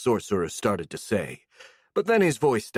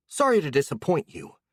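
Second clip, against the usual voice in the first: sarcastic; 4 semitones higher than usual. Acted. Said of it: "the girl replied sarcastically".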